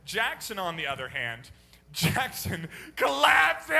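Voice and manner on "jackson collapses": slow hammed-up shout, louder and higher; a theatrical wail of despair; mock dramatic cry. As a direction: stretch it out like a melodrama. Dramatic retelling of child collapsing.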